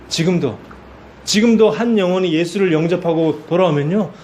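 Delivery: ordinary talk, nothing marked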